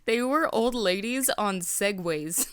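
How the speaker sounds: drawn out through laughter; laughing correction. Real, not acted. Co-host corrects the story, laughing as they talk. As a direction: laugh your way slowly through it.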